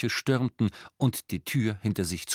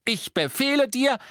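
high, louder stern command; 4 dB louder than usual. A narrator's reading. Harry ordering Creature to answer. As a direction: order it firmly.

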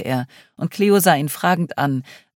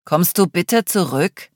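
admonishing; 4 semitones higher, 4 dB louder, slower than usual. Acted. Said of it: "mahnte sie Adrian".

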